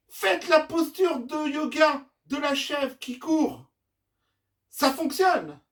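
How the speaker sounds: high, loud shout across a distance; calling out. Acted. Madame Yumi shouts to her goats from the beach, calling out. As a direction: holler instructions to the far shore. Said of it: "leur crie".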